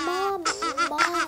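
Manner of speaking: calling out. Acted. Kid calling her mom on the phone, urgent loud call. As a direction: grab her attention fast.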